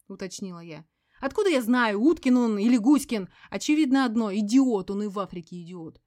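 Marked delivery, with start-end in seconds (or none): 1.2-4.3 loud, higher, scornful yell; contemptuous yell. A narrator's reading. Veronika scorns the narrator's question, loud yell. 4.3-4.9 contemptuous shout. A narrator's reading. Word repeated, shouted then flat.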